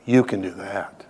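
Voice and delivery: low, slow, earnest assurance; direct, face to face. Real, not acted. Preacher challenging hurting listeners to their face, earnestly. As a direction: say it slowly and personally, pitched low. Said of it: "say this to your face".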